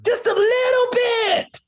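breaking into sobs; crying out. Real, not acted. Overcome describing God's reward.

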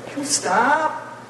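put-on high, slow, drawn-out childish whine; whiny hungry kid. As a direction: beg like a tired kid in the back seat. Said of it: "And you start complaining".

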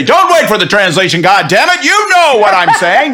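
loud, high and forceful; table-banging demand. Pretend. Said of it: "bang my foot on the table and say".

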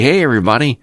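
mock the chirpy local news host, all smiles; hammed-up folksy TV anchor, bright and upbeat; folksy newscaster. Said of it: "They're folksy".

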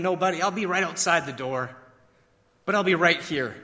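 soft-spoken, soothing dad, lightly acted; gentle reassurance. Dad comforts son before leaving his room, softly reassuring. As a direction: reassure a small child at bedtime.

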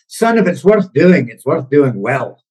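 imitating dad in a rough Scottish accent; attempted Scottish accent. Host quotes his dad's advice, attempted Scottish accent. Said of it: "trying to do my best Scottish accent".

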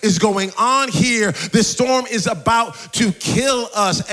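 mildly panicked disciples, emphatic; retold freak-out. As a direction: act out a touch of panic, slowing on the threat. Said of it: "They're going crazy".

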